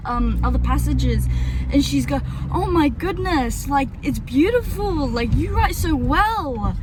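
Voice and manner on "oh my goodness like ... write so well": higher, drawn-out admiring gush; gushing praise. Retold or imitated. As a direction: imitate her impressed, lingering praise. Russian lady's praise retold.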